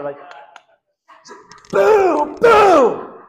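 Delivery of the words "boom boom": very high, loud booming strikes; shouted boom. Retold or imitated. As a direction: smash the words out. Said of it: "he didn't just, like, lightly tap it".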